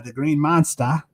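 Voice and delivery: put-on a light, hammy Boston accent. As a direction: Green Monster said with a Boston accent. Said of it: "my terrible Boston accent".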